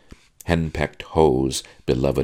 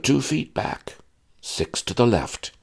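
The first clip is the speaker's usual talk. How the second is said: higher, tired father's voice; weary sigh; 10 semitones higher than usual. Acted. Father resigned to his daughter's swooning, wearily sighing. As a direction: recite it like a worn-out dad. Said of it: "her father sighed".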